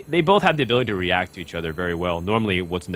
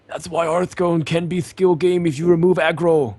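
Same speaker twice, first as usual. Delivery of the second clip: higher, slower, pompous nerd voice; Hearthstone nerd voice; 8 semitones higher, 5 dB louder, slower than usual. Pretend. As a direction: play an uppity know-it-all gamer. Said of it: "That was my Hearthstone nerd voice".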